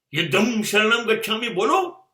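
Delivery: pushed out in one go, rising at the end; mocking challenge. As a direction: dare the crowd to chant it. Sarcastically demands a war chant.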